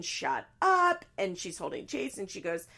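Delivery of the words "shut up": high-pitched imitated yell; hammed-up screamed retort; mock scream. Daughter screaming at her mom, mock yell. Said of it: "Janelle's screaming".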